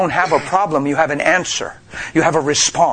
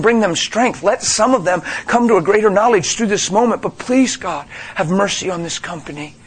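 calm prayer. Retold or imitated. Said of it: "why doesn't a Christian get the thing and go".

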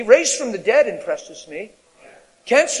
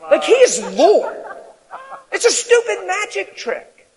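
slow emphatic declaration; 10 semitones higher, 5 dB louder, slower than usual. Real, not acted. Preacher declaring Lord over trick.

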